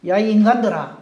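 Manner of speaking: loud scornful shout at the crowd; mock angry yell. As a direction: bark it at the crowd like an offended man. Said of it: "말을 어찌 하-, 하기가 쉽겠습니까?".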